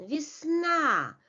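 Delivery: "Весна" as vis-NA, short i then stressed A; "Весна" with long falling last syllable; unstressed Ye. Shown as a demonstration. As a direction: weaken the first vowel of "Весна", land on the final A. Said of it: "without the stress".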